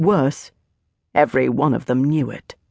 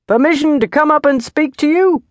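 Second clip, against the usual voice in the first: high-pitched raised call; 11 semitones higher, 3 dB louder than usual. A narrator's reading. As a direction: call up politely to someone above. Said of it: "called the valet".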